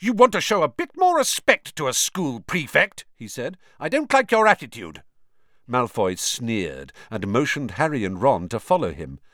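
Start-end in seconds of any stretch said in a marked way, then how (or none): 0.0-3.0 high, pompous indignation; outraged. Acted. Percy rebukes Malfoy, high and outraged. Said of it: "Percy looked outraged". 3.8-5.0 high, pompous indignation; outraged. Acted. Percy rebukes Malfoy, high and outraged. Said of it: "Percy looked outraged".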